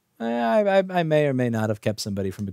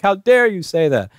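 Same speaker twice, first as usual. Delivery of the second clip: mock offence; 6 semitones higher, 5 dB louder than usual. Acted offended reply.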